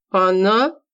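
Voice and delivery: gurgled, choking on the word; gurgling. Acted. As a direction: bubble the word out in shock. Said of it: "пробулькал".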